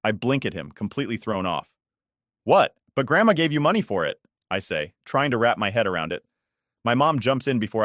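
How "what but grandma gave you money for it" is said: sudden high shocked outburst; shocked disbelief. Acted. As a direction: blurt it out in disbelief. Shocked daughter protests.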